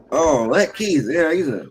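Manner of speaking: high, loud put-on politeness; fake niceness. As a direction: act out insincere praise. Acts the fake-nice alternative to bluntness.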